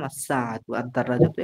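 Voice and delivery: আস-সাআতু run together with no l sound; আদ-দারাজাতু with the l absorbed into d; joined article. Shown as a demonstration. Teacher demonstrating the joined article to the class: careful pronunciation. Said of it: "আমরা যুক্ত করে বললাম".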